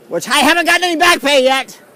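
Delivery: indignant aside. Real, not acted. Complaining aside, loud high.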